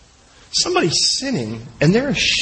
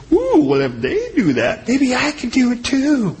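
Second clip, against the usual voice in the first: tempted inner voice; 4 semitones higher than usual. Retold or imitated.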